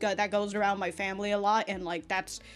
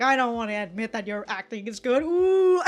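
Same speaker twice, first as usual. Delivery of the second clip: mock grudging admission; 4 dB louder than usual. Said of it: "Yuhi's just over like".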